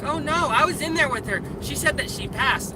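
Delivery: high, mock-dismissive mother's voice; sarcastic imitation of the ex's mother shrugging it off; mocking her mom. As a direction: lift the pitch and brush it off like she's clueless. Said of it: "mom was like".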